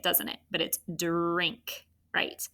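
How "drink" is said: "drink" with d and a held r, no j sound; clear d-r blend. Shown as a demonstration. Teacher correcting the j sound, "drink" with a drawn-out blend. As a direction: stretch the "dr" at the start of "drink". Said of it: "It sounds like j when we say it".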